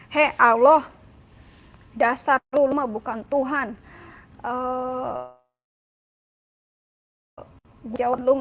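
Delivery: retold rude outburst at God, forceful; rather loud, coarse. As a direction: hurl a defiant, insistent renunciation. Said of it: "ngomong agak keras, ngomong agak kasar".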